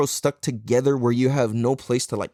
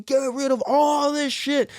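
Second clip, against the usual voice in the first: high, slow, strained outburst; frenzied determination; 12 semitones higher, slower than usual. Acted. Seeker tearing out his ego, strained outburst. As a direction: drag the words out with effort.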